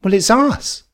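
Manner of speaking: put-on childhood self. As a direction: plead like a bewildered little kid.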